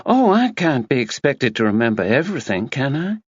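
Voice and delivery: a self-absorbed woman brushing off a murder; breezy Tina voice. A narrator's reading. Narrator voicing Tina to Max, breezy and dismissive.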